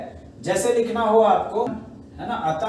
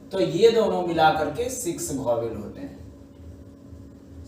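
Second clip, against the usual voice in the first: slow teaching emphasis; slower than usual. Shown as a demonstration. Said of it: "teacher stressing the count".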